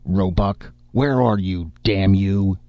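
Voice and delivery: furious shout across a silent bar; roaring. Acted. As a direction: bellow his name to draw him out. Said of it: "and roared".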